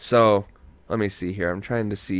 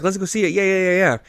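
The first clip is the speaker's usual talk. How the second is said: higher, eager mock pleading; lightly voiced girlfriend; 8 semitones higher, faster than usual. Imitating girlfriend pushing to see the tent, higher eager voice. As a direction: imitate her in a raised pitch. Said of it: "she's like".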